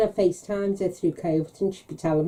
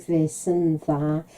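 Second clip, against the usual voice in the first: slow, drawn-out teasing dodge; coy evasive; 2 semitones lower, much slower than usual. Retold or imitated. Mum coyly dodges her daughter's question.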